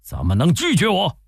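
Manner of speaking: a general's outrage building to a demand; Ma Teng venting fury at being turned away, angry; furious complaint. A narrator's reading. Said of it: "马腾大怒说".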